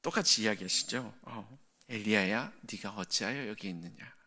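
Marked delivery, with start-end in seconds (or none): 1.9-4.1 gentle whisper. Acted. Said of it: "부드러운 속삭임... 토닥이듯이 이렇게 어루만지듯이 이야기하십니다".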